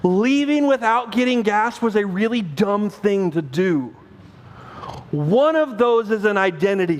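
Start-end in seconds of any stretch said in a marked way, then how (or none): 0.0-4.0 calm correction. Shown as a demonstration. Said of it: "saying that and Isaac".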